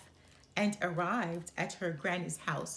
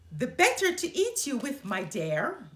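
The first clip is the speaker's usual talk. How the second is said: loud, fast, higher menacing snap; the wolf springs out to eat her; wolf pouncing; 5 semitones higher, 6 dB louder than usual. Acted. Wolf pounces on Little Red.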